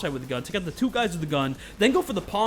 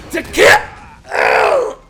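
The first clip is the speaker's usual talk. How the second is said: high, loud, breathy battle cry; voice actor scream; 14 dB louder than usual. Retold or imitated. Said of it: "how do the voice actors do it".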